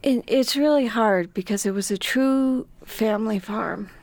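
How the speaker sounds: holding back tears mid-sentence; getting emotional. Real, not acted. Mother describing losing the family farm, voice breaking. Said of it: "Now I'm getting emotional".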